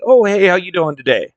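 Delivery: imitating a casual call-out to a customer; hollered greeting. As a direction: call over a friendly greeting, lightly acted. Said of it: "So I holler over".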